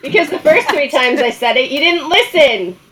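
playful scolding, slowing at the end; mock exasperated spouse. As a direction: answer back in an acted marital quarrel. Acts out a marital quarrel.

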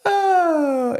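laughing, high startled oh; a caught-out, loud high oh; surprised. Real, not acted. Caught out by husband.

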